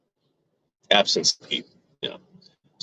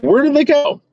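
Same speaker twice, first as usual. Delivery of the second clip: much higher, mock-panicked yelp; retold freaking out. Man retelling how his testicles vanished, mock freak-out. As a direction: act out baffled panic, pitched way up. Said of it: "I'm, I'm freaking out".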